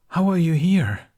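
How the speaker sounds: sudden, loud, high outburst; urgent. Acted. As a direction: cut in, loud and desperate. Shocked interruption.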